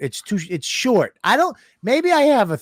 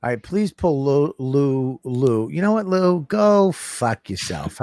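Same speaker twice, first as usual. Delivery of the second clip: low, slow mock request turning to insult; pointedly measured, deadpan telling-off; deliberate tone, dragging out the insult; mock-polite put-down; 4 semitones lower, slower than usual. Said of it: "How's that tone for you?".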